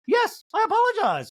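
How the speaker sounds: high, loud mock Dorit; Dorit impression. Recapper mocking Dorit's repeated apology, high. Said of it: "Sutton's like".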